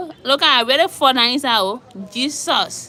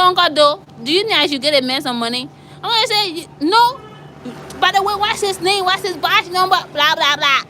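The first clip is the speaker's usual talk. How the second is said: excited phone call; 7 semitones higher than usual. Retold or imitated. Phoning her uncle the police chief.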